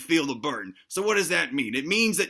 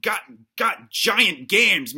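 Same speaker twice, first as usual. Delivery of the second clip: slow, drawn-out and louder; stretched hype; 3 semitones higher, 6 dB louder, much slower than usual. Acted. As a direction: drag out the brag like a hype man. Hyping up leg muscles.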